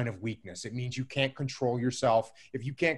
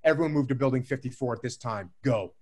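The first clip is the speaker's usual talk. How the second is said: steady, controlled, unhurried order; calm radio call; 3 semitones lower than usual. Retold or imitated. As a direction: sound like everything's under control. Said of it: "like I had everything under control".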